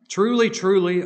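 "Truly, truly" punched high and loud; emphatic "Truly, truly". Retold or imitated. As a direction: proclaim "Truly, truly" with strong emphasis. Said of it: "he's putting an emphasis on that word".

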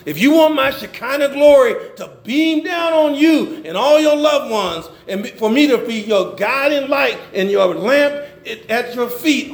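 impassioned preaching. Acted. Preacher voicing God's offer of glory to believers, impassioned. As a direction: preach the promise out in one long surge.

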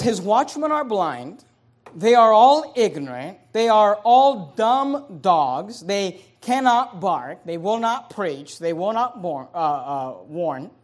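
loud, very slow, word by word; slow emphatic scripture reading. Acted. Pastor reading Isaiah to his church, slow and loud. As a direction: lean on every phrase. Reads verse slowly with force.

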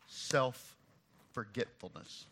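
very slow, soft self-forgetfulness; slow emphasis. Real, not acted. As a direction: let the word sink in slowly. Key word said slowly.

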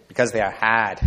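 put-on JFK's Boston accent, dropping the r in "hard". Preacher mimicking Kennedy's moonshot speech, Boston accent. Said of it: "This sounds better in his Boston accent".

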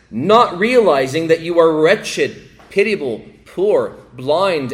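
rising, full-force preaching of Jesus's words; fervent rebuke. Acted. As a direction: thunder the rebuke from the pulpit.

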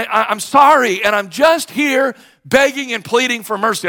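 rising, pleading cry for mercy; pleading loudly. Retold or imitated. Friend retelling how he begged the judge for mercy. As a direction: beg the judge with a burst of force. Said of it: "friend pleading to judge".

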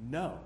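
No. said alone with weight, falling; emphatic no. Shown as a demonstration. Preacher shows the Greek opening word, emphatic no. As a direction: land the single word No. as a verdict. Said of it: "a way of putting an emphasis".

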